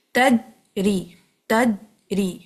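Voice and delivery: تجری with the jeem stopped; تجری, jeem held shut; blocked jeem. Shown as a demonstration. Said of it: "اس کو block رکھتے ہوئے ہی پڑھیں".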